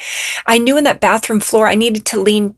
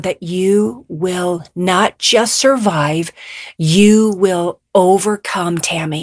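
voice of God; 3 semitones lower, much slower than usual. Retold or imitated. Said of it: "like the voice of God".

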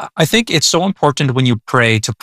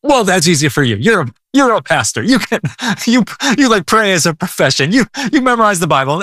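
lightly voiced doubter, a bit higher; a listener pushing back on the pastor, mild mock doubt; skeptical listener; 6 semitones higher than usual. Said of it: "Now you might say".

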